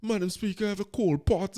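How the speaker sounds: a hint of a pompous MP opening his speech; mock parliament speech. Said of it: "the two minutes where you say".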